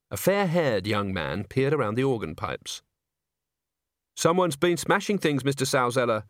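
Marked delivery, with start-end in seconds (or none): none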